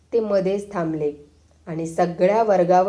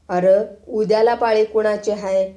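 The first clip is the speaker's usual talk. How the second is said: shrill high pitch; 2 semitones higher, 3 dB louder than usual. Acted. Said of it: "तार सुरात म्हणाले".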